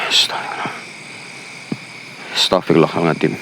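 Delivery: real frightened whisper; scared whisper. Real, not acted. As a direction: whisper it so nothing hears you. Frightened ghost hunt at night.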